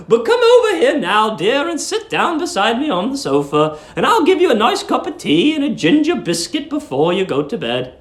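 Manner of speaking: put-on high, fussy voice of a sweet old landlady. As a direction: coo it like a doting old landlady.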